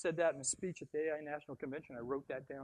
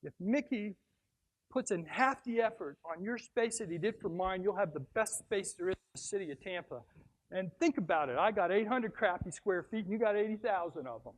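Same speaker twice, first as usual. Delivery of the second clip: lightly raised, emphatic; 3 semitones higher, 5 dB louder than usual. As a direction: champion the architect to the board. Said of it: "and I said".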